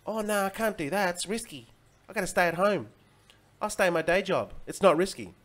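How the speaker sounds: lightly mock the moaners; mock whiny complainer.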